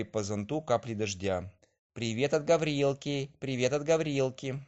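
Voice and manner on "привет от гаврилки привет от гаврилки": higher sing-song voice of the rain; rain's greeting. A narrator's reading. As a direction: chant it like drops on an umbrella.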